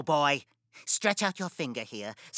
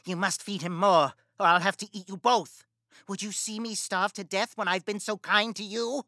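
loud furious witch threat; furious shouting witch; angry witch; 4 semitones higher, 6 dB louder than usual. Acted. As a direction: rage at the girl.

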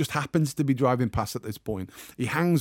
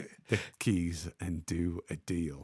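inner voice; 6 semitones lower, 8 dB quieter, slower than usual. Retold or imitated. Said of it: "a voice in my head says".

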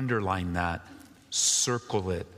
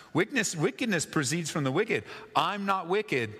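higher, teasing jab on Wickedness; mild rebuke; 7 semitones higher than usual. Shown as a demonstration. Pastor voicing David's gentle jab at Saul, a mild rebuke. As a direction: poke gently at Saul with the proverb. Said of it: "just a little mild rebuke".

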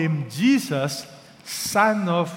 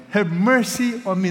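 loud, raised desperate cry; 5 semitones higher, 7 dB louder than usual. Acted. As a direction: plead aloud, voice lifted high. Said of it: "he kept crying out all the more".

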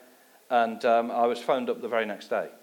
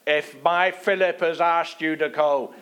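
slow, louder imitated Irish accent, higher; 6 semitones higher, 7 dB louder than usual. Gordon advising him to go, in an Irish accent. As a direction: put on the Irish accent of an old friend. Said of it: "in his Irish accent".

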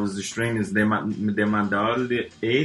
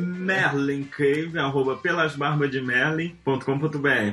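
sensual voice; 2 semitones higher than usual. Pretend. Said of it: "Voz sensual".

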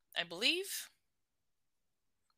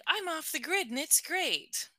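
mock carefree quote; 9 semitones higher than usual. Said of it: "You could imagine someone being right now being like".

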